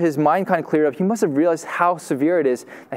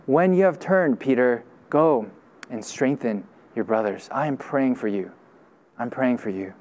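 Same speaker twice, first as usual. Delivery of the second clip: tender plea; 4 semitones lower, 3 dB quieter than usual. Retold or imitated. Jesus speaking tenderly to Peter.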